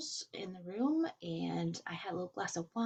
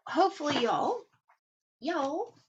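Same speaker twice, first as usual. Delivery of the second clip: Texas accent; 6 semitones higher, 5 dB louder than usual. Real, not acted. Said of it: "my Texas accent is coming out".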